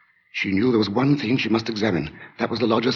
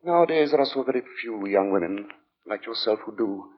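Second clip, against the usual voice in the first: sinister lodger; 8 semitones higher than usual. Acted. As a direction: speak like a polite man hiding menace. Narrator voices the lodger Sleuth.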